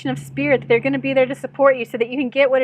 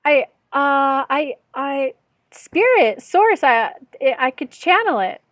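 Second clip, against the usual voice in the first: nervous stammer. Retold or imitated. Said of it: "I was so nervous".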